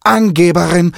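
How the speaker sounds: high, loud squawking taunt; mocking parrot. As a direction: tease her like a cheeky parrot. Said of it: "spottete Kiki".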